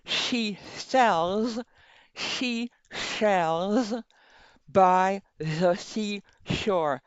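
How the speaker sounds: slow tongue twister through a pen; pen in teeth. Shown as a demonstration. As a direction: speak slowly past a pen in the teeth. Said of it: "so you can still hear it, even if it's not perfect".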